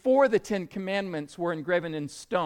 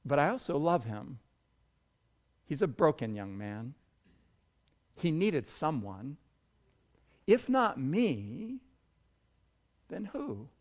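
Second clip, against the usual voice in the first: soft, lower, compassionate confession; softened, tender voice; 5 semitones lower, 6 dB quieter than usual. Retold or imitated. Retelling a mother who loves her son's killer, softened voice. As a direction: let the retort give way to quiet tenderness. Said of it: "But then her voice changed".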